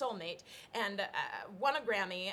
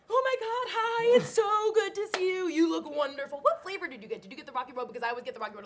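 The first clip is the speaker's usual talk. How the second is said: high, loud, overly bright gushing; nervous high gush at an old boss; gushing fake delight; 8 semitones higher, 8 dB louder, faster than usual. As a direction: overdo the thrilled hello to hide panic. Gushing fake-friendly greeting to Michael.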